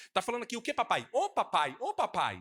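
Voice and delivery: high, loud calls to papai; mock preacher. Mocking a pastor crying out papai before the church, high and loud. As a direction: imitate a pastor calling out to the Father. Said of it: "Ainda faz assim".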